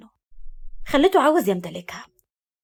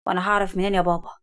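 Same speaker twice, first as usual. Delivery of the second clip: calm and sly; 3 semitones lower than usual. A narrator's reading. Son answering his father's question, calm and sly. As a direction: feign ignorance calmly. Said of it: "رد عليه بهدوء ومكر".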